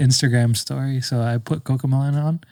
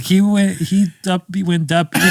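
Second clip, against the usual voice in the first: a light hint of a little kid, slightly higher; 4 semitones higher than usual. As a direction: lightly mimic a small child fumbling words. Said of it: "It sounds like a little kid".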